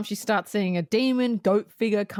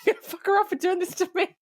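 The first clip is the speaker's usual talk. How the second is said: imitating vengeful friend; 2 semitones higher, faster than usual. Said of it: "I can imagine you going".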